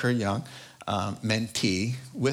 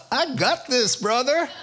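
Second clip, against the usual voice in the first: confident brush-off; 11 semitones higher, 3 dB louder than usual. Retold or imitated. Man's confident reply retold.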